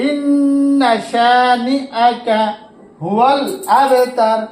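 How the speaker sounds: slow, drawn-out melodic tilawat; slow Quran recitation. Shown as a demonstration. Teacher recites the verse slowly to his students. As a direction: chant each word long and even. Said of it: "teacher recites the finished verse".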